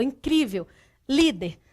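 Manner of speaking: "incrível, Líder" weighted on CRÍ and LÍ; penultimate stress. Shown as a demonstration. Teacher lists paroxytone examples, penultimate syllable stressed in "incrível, Líder". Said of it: "penúltima sílaba é a mais forte".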